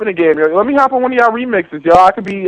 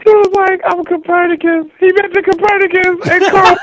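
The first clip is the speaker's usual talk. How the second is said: excited; 11 semitones higher, slower than usual. Real, not acted. Hyped by the freestyle.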